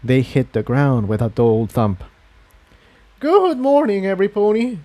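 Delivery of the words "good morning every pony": panting a little after carrying bags; a touch breathless; slightly out of breath. A narrator's reading. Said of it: "panting slightly from the exertion".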